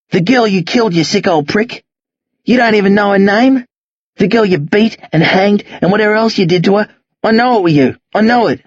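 mildly heated accusation. Acted. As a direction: press the charge with restrained anger. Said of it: "They've both raised their voices".

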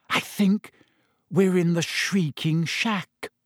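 high, halting, still voiced; frightened whisper. A narrator's reading. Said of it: "she whispered".

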